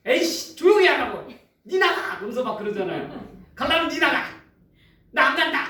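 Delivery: mock a grumpy grandpa telling someone off; hint of an angry old man shouting back; irritated old man. Annoyed old man in subway.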